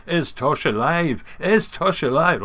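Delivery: imitated German accent, loud and eager. Scottish man's question recast in a mock German accent. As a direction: ask it like a German fan, slow and loud. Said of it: "in a German accent".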